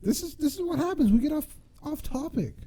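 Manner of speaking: high, laugh-filled voice. Real, not acted. Still cracking up as he admits the podcast went off topic. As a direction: speak through the giggles.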